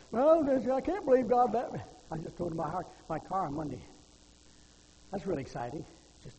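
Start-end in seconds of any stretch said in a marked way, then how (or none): 0.1-1.8 loud, high-pitched mock protest; acted complaining. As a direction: complain indignantly, imitating a grumbling believer. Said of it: "when you complain".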